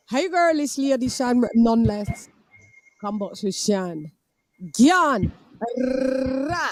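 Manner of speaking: strut out of the stream with flair; Lady Shan sign-off. Acted. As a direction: streamer signing off as her persona Lady Shan, hammed-up. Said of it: "Lady Shan has left the building".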